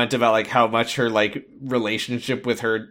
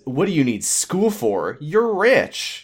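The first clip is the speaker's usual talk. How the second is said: incredulous mock boyfriend voice; mock clueless boyfriend; 4 semitones higher, slower than usual. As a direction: play the clueless rich boyfriend. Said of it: "And then he says".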